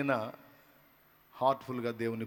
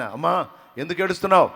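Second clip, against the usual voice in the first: Jesus calling out; 3 semitones higher, 11 dB louder than usual. Acted. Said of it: "యేసయ్య ప్రశ్న".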